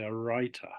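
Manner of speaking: WRITER with a crisp British T; British pronunciation. Shown as a demonstration. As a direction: say "writer" the British way, T clearly sounded. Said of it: "In British English, I'll say".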